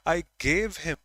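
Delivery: "gave" stretched with a falling tone; stress on GAVE. Shown as a demonstration. Asked a fifth time by father, insisting on "gave". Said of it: "this is my intonation, voice modulation".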